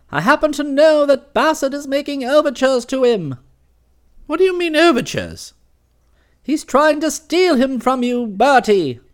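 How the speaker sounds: lightly voiced, ominous aunt; hint of a booming aunt; imperious aunt. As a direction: warn him darkly. Aunt warns about Bassett.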